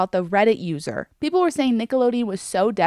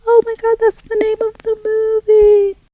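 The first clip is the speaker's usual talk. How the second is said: much higher, louder sudden exclamation; excited realization; 12 semitones higher, 7 dB louder than usual. Real, not acted. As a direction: blurt it out in excited disbelief. Realizing the film's title.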